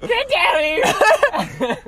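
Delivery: hollering hillbilly dad; appalachian accent. Retold or imitated. Dad calling son downstairs.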